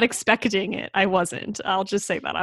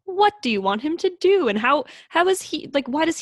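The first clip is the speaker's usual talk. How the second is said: much higher, indignant outburst; outraged protest; 8 semitones higher than usual. Real, not acted. Co-host outraged at the dad.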